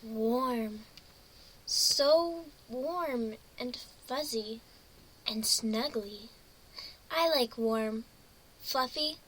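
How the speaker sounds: soft, slow, half-asleep murmur; sleepy pony barely awake, cosy; drowsy Lyra. Acted.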